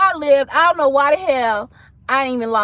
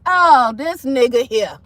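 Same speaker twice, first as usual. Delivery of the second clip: retold disbelief. Reacts to ex walking out.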